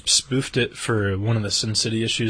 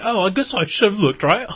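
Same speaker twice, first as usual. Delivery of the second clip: careless; 9 semitones higher than usual. Retold or imitated. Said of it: "She's like".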